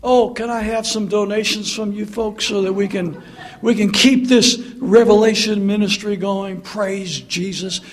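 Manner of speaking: a hint of a fundraising preacher; mock TV preacher. Mocking a TV preacher asking folks for donations, light. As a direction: lightly sell the ministry. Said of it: "these T V preachers".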